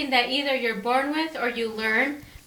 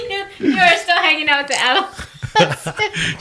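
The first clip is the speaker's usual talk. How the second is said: laughing; 5 semitones higher than usual. Real, not acted. Teasing through laughter.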